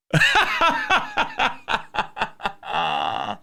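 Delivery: high breathless laugh at the caller; helpless laughter. Real, not acted. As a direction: crack up in disbelief. Host laughing at angry caller.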